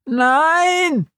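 high piercing cry of no; scream. Acted. Betty schreit auf dem Rasen, hoch und schrill. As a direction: shriek it high. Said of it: "als er einen Schrei hört".

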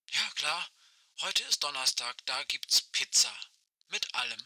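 like a far-off voice over a walkie-talkie; old rotary phone. Acted. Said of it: "Aisches Stimme knarzt durch das Funkgerät".

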